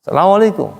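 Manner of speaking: high, brisk Arab-style salam, falling end; Arab greeting intonation. Shown as a demonstration. Teacher imitates Arabs saying salam, high Arab lilt. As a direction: greet like an Arab, pitch up then down. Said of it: "orang Arab begituin".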